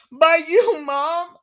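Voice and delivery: can't hold back the giggle; laughing through quote. Retold or imitated. Host giggles while quoting Steffi to her mom. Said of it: "Oh, my bad... Let me stop".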